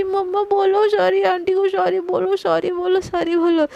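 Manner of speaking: high, whiny mock-tearful plea; a little girl half-crying for an apology; crying child. Little girl begs mom to apologise, whiny and tearful. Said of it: "Pihu रोने लगती".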